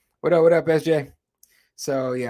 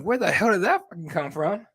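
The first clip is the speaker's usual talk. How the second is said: higher-pitched incredulous question; mock bewilderment, pitched up; retold disbelief; 5 semitones higher than usual. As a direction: act out your baffled reaction. Retells reaction to sudden accent.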